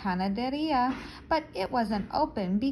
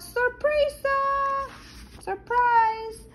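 excited surprise; 14 semitones higher, 4 dB louder, slower than usual. Acted. Dad calls out surprise.

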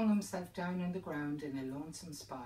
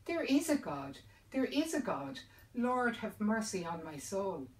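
much higher and louder, anguished repetition; desperate cry; 5 semitones higher, 5 dB louder than usual. Acted. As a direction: wail it while wringing your hands. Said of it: "wring his hands and cry out".

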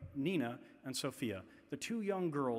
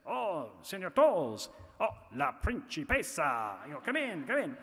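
welcoming staff; 4 dB louder than usual. Retold or imitated. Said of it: "the staff would say".

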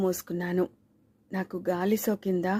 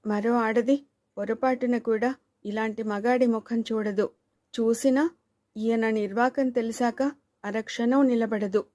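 lamenting wife; 3 semitones higher than usual. Acted. Wife complains to the neighbour aunt, a raised lament. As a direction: pour out grievances, half wailing. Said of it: "అని వాపోయింది".

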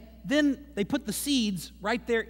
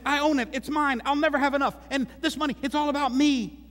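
possessive self; 5 semitones higher than usual. Retold or imitated. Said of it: "we say".

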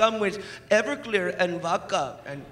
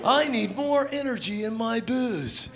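designated driver impression; 3 semitones higher than usual. Designated driver hyping drinks at the party, then yelling at his wife. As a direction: pump up the crowd, then turn nasty. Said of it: "my impersonation of every designated driver".

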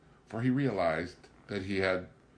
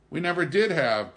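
helpfully; 10 semitones higher, 8 dB louder than usual. Acted. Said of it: "Pilon added helpfully".

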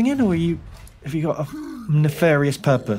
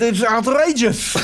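Lesnok the war correspondent; 5 semitones higher than usual. Acted.

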